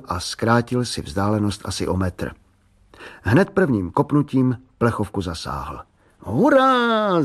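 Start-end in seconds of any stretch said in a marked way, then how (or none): 6.2-7.2 high, loud cry of triumph; a kid's victory yell; joyful shout. A narrator's reading. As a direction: shout it out like a boy who just hit the can. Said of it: "zakřičel tak".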